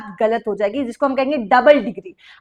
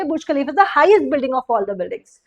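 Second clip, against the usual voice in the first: slow corrected example; slower than usual. Shown as a demonstration. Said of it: "तो आप बोलोगे".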